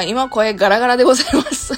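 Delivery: real hoarse, worn-out voice; hoarse after a long day of talking, laughing. Real, not acted.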